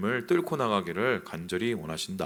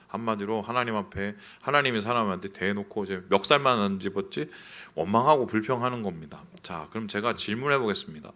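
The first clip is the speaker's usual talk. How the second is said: ordinary talk, nothing marked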